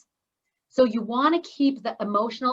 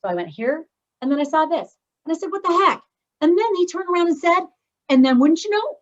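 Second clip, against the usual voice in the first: ascending volume; 6 semitones higher, 6 dB louder than usual. Shown as a demonstration. Speaker showing how to tell a story, building in volume. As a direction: build from normal to loud and high. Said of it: "people ascend in their volume".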